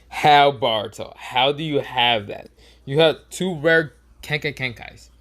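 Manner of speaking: loud, slow, emphatic questioning; incredulous demand. Acted. Konohamaru demanding how Baruto has rare powers, incredulous. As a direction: press each word out in disbelief.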